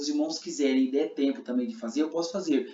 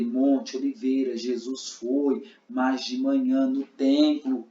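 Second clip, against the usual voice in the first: very slow, measured phrasing; slow demo; 3 dB louder, much slower than usual. Shown as a demonstration. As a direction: spell it out slowly. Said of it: "se os irmãos quiserem fazer".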